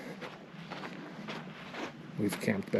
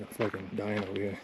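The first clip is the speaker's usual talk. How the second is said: gasping, winded and tired; puffing after the steep climb; out of breath; 6 dB quieter than usual. Real, not acted. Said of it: "Sorry, I'm out of breath".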